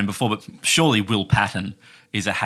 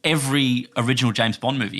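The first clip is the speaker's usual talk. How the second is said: put-on Scottish accent; 2 semitones higher than usual. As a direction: draw it out in Scottish. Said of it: "in your Scottish accent".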